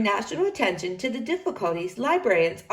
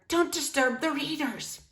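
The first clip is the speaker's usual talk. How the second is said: higher, softer prim warning; stern hushed librarian; 6 semitones higher, 4 dB quieter than usual. Acted. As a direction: scold quietly like a prim librarian. Library worker shushing.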